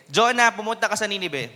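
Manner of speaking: booming command sent to Jonah. Shown as a demonstration. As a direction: call it out to wake everyone up. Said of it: "Medyo lalakas ako yung boses ko".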